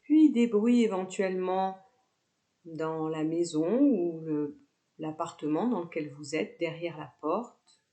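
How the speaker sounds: calm yoga nidra guidance with long pauses; guided meditation. Real, not acted. Yoga teacher guiding students lying down with eyes closed, guided meditation. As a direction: lead them into relaxation, phrase by unhurried phrase.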